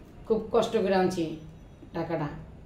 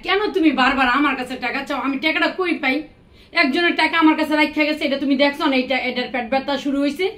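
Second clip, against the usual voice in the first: louder, exasperated nagging; angry scolding; 3 semitones higher, 4 dB louder than usual. Acted. Wife angrily scolding husband for asking money again. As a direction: scold him for always taking money.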